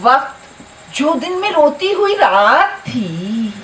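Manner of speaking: slow, stretched verse endings; poetry recitation. Acted. Poet reciting verses on time to a gathering, drawn-out declamation.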